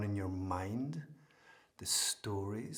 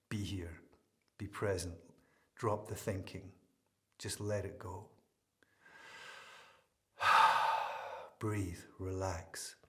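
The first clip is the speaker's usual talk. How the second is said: slightly lowered, spacious meditation voice; guided meditation; 2 semitones lower than usual. Real, not acted. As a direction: lead listeners gently into letting go.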